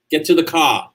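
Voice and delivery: Boston open ah ending the phrase; Boston accent. Shown as a demonstration. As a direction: turn "car" into "cah" like a Bostonian. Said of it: "a lot from Boston".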